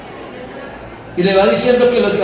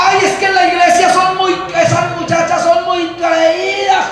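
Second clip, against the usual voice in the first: mock complaint; 6 semitones higher than usual. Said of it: "a toda hora".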